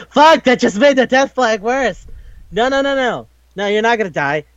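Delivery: high-pitched frantic retold outburst; panicked protest. Acted panic at death flag.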